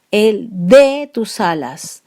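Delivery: "de" stressed, slow. Shown as a demonstration. Teacher rereading the verse, stressing "de". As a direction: lean on "de" as the verb, slowly. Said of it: "Ese de también".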